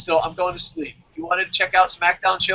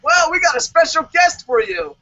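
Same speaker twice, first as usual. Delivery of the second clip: high, upbeat host teaser; TV host tease; 10 semitones higher, 4 dB louder than usual. Pretend. Today Show host teasing a surprise guest, upbeat. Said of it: "they're like".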